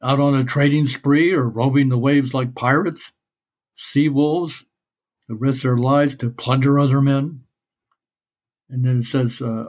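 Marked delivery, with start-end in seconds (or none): 0.0-7.4 Cyclops voice. Acted. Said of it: "this is my Cyclops voice".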